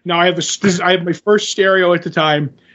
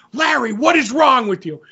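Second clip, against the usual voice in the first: mildly acted scolding mom, pitched up; mother freaking out; 4 semitones higher than usual. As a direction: demand an explanation as an appalled mother. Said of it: "freaks out".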